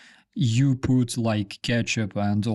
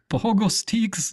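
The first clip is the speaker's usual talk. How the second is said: high, laughing question; laughing disbelief; 9 semitones higher than usual. Real, not acted. Streamer laughs at the pogo stick search result. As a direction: laugh at the odd name, pitched way up. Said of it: "No, no, that's something else".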